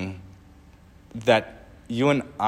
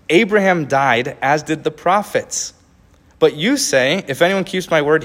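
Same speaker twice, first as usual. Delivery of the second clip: higher, indignant questioning voice; indignant accusers; 5 semitones higher, 4 dB louder than usual. Acted. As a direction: challenge him in disbelief. Voices the Jews' challenge.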